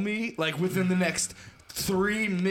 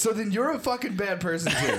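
laughing; 3 semitones higher than usual. Real, not acted. Laughing accusation.

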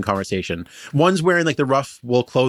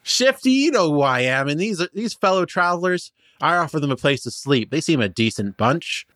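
weary halfling; 4 semitones higher than usual. Acted. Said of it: "shoulders just kinda slump".

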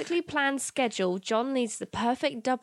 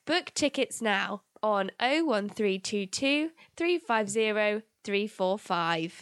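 slow, clear ad-read of a phone number; call-centre read; slower than usual. Pretend. Reading the booking number out like a call-centre agent. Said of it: "You should work in a call centre".

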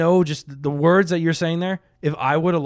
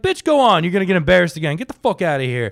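imitating the host mocking a losing friend; brash host; 3 semitones higher, 5 dB louder than usual. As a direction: sneer it like a cocky emcee. Imitating brash host's taunt.

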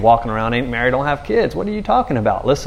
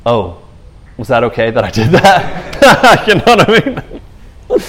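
timid woman; 4 dB louder, slower than usual. Retold or imitated. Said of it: "fearing and trembling, like".

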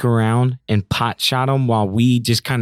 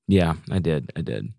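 robot voice; 8 semitones lower, 6 dB quieter than usual. Shown as a demonstration. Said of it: "I went into it".

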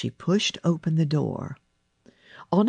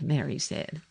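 ordinary delivery, nothing marked

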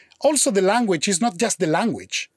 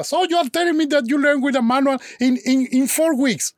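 higher, fast skeptical question; disbelieving girlfriend; 7 semitones higher than usual. Retold or imitated. Girlfriend doubting he learned Italian in four weeks, fast high incredulity. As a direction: grill him, quick and incredulous.

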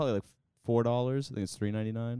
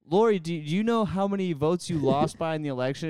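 higher-pitched mock press question; imitated interviewer; 7 semitones higher, 4 dB louder than usual. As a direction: put it like a post-game reporter. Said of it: "post-election interview. It's like post-game".

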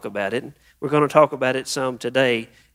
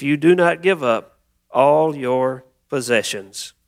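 deliberate public reading from the Gospel; scripture reading. Acted. Pastor reading Luke fourteen to the church, measured proclamation. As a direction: read it out to a congregation. Reads scripture aloud to congregation.

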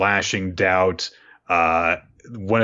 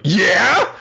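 much higher, louder indignant yell; mock yell; 11 semitones higher, 6 dB louder than usual. Doubt admitting he hates attractive guys, mock yell. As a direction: blurt it out, offended.

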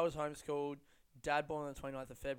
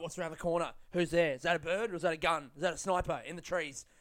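paranoid lookout; 2 semitones higher, 6 dB louder, faster than usual. Pretend. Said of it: "like a fucking S A S".

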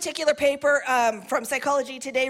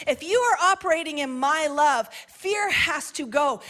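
preaching climax. Real, not acted.

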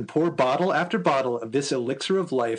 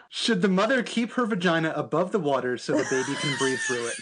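laughing; 3 semitones higher than usual. Real, not acted. Reading absurd question, cracking up.

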